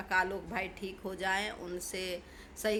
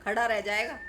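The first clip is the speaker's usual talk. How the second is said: angry threat; 2 semitones higher, 3 dB louder than usual. Real, not acted. Threatening Jhinga to reform.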